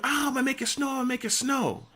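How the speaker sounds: put-on high, wailing drunk chant; mock drunk scream. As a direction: wail it like a madman. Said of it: "He's screaming".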